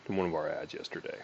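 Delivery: casual sales pitch voice; sales call script. Shown as a demonstration. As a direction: read the opener like a real call. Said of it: "start from the top".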